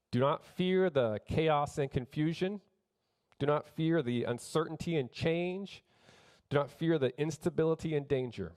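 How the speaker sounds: preaching refrain. Acted. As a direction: build the refrain line by line. Repeated exhortation, slowed.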